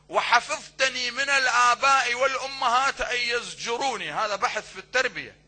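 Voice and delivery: loud, ringing declamation; preaching at full force. Acted. Preacher declaiming the supplication to the congregation, loud. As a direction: proclaim the prayer line to the hall.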